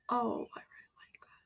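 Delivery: whispered gushing praise; soft hushed admiration; delighted whisper. Real, not acted. Admiring the shot's framing.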